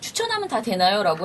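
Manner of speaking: ordinary delivery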